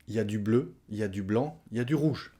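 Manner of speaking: "il y a" cut to "y a"; spoken contraction. Shown as a demonstration. Teacher listing flag colours in casual spoken French, contracted. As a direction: drop the "il": "y a du bleu", "y a du rouge". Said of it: "À l'oral, on va dire".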